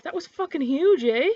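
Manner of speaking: Canadian amazement with a tag "eh". Acted. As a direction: marvel in Canadian, ending on "eh". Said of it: "or, like".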